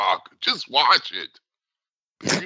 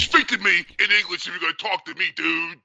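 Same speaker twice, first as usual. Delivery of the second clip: Andre the Giant voice; 4 semitones higher than usual. Retold or imitated. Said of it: "Remember that?".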